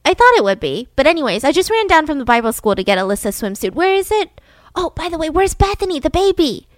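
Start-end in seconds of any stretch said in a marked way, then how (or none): 3.7-6.7 high, breezy chatter; bright chatty. Retold or imitated. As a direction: chirp it out brightly. Candy voiced chatting at Betty's.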